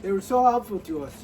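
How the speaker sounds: brisk mock gratitude; sarcastic. Real, not acted. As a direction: praise them quickly, without meaning it. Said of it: "that was sarcasm".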